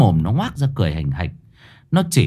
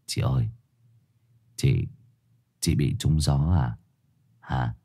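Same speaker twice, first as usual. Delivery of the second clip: worried murmur; 9 semitones lower, 6 dB quieter than usual. A narrator's reading. Young man asking worried.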